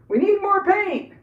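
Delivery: high, loud, slow declaration; mock proclamation. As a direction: belt it like a comic sketch line. Cowbell joke punchline.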